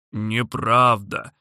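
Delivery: slow sulky dragon protest; offended dragon. Acted. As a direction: sulk like a hurt dragon. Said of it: "обиделся дракон".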